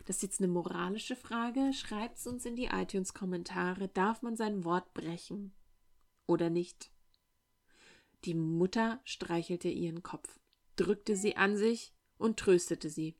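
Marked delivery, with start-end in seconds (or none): none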